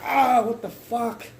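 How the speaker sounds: high, loud, slow cry of shock; startled yelp. Retold or imitated. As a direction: yelp as if punched out of nowhere. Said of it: "He's like".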